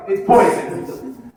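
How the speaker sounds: "It's poison." stretched slow and hushed; slow deadpan. Shown as a demonstration. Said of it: "repeated slow take".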